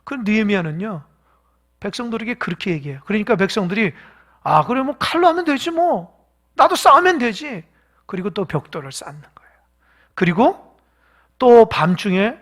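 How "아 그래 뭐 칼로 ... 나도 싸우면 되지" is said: casual resolve. Acted. The people voiced agreeing to fight.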